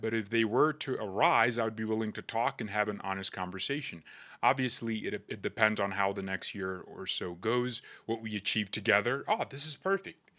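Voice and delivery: lightly imitated English footballer accent; a hint of a calm English footballer's accent; Harry Kane accent. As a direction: read the quote in a faint English accent. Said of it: "let me read it in his accent".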